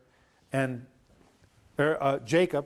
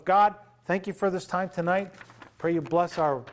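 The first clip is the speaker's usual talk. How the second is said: closing prayer; 2 semitones lower than usual. Acted. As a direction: pray gently over the group.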